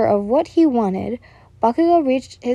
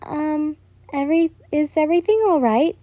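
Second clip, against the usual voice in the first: nervous; 6 semitones higher than usual. A narrator's reading. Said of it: "you asked nervously".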